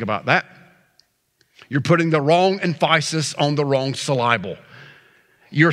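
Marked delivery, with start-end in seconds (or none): 1.8-4.6 "emphasis" said em-FYE-sis, "syllable" said sil-EYE-bul; misplaced stress. Shown as a demonstration. Repeats the mispronunciation joke.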